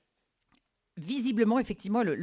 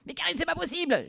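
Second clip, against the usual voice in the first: high, pleading disbelief; exasperated boss; 10 semitones higher than usual. Retold or imitated. Boss despairing at the temp. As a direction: throw up your hands.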